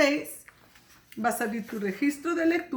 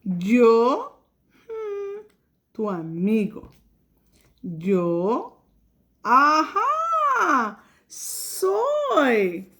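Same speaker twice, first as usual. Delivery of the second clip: words read one at a time with long pauses; teacher models slow word-by-word reading; much slower than usual. Shown as a demonstration. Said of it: "ahora vamos a leer".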